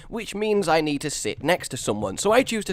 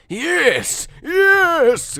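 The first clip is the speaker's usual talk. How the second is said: high, rising yelps of yes; excited; 6 dB louder than usual. Real, not acted. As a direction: celebrate with a squealed, louder yes. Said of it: "that was so exciting".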